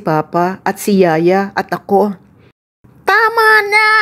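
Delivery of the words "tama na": put-on high, pleading child shout; shout at brother. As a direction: yell at him to stop. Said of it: "sigaw ko kay Kuya".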